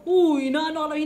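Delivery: hammed-up annoyed scolder; mock scolding. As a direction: repeat the rebuke in playful indignation. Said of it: "pinagalitan na ako".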